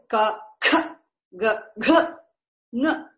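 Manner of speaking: "Ka, kha, ga, gha, ng" as separate syllables, puffing kha and gha; consonants with specific effort. Shown as a demonstration. Teacher showing the effort behind consonants, "Ka, kha, ga, gha, ng" said emphatically apart. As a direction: sound out "Ka, kha, ga, gha, ng" one by one with deliberate effort. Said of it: "It's called specific emphasis".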